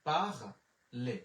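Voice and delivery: "পাখলে" stretched out very slowly, syllable by syllable; very slow repeat. Shown as a demonstration. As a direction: drag out "পাখলে" so students can copy it. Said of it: "ও এর এর উচ্চারণ হচ্ছে একার". (খুব ধীরে টেনে "পাখলে")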